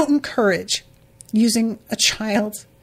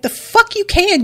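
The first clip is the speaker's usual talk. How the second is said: mock angry retort; 10 semitones higher, 3 dB louder than usual. Retold angry refusal.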